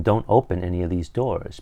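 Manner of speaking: usual speaking voice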